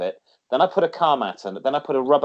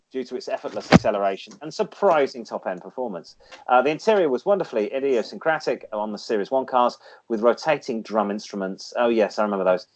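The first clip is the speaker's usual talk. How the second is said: lightly read-out segment voice; feature read. Acted. Reads classic car feature.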